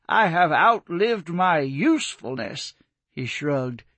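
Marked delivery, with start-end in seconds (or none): 0.1-2.7 mocking quote. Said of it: "when you make a statement so patently ridiculous as".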